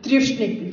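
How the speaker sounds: "Trishnik" as one word, opening on tri; fuse the tri of Gayatri with Ushnik into "Trishnik"; run-together pronunciation. Shown as a demonstration. Teacher shows how the joined word sounds, "Trishnik" run together. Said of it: "when you pronounce it".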